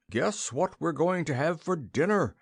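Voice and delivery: lightly out of breath, rushing in with news; panting. A narrator's reading. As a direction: gasp it out after a run. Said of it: "panted Whiffin Puff".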